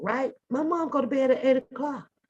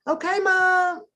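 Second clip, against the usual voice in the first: put-on higher little kid answer; 8 semitones higher, slower than usual. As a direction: sound like an obedient child. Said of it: "answering her as if I'm a little kid".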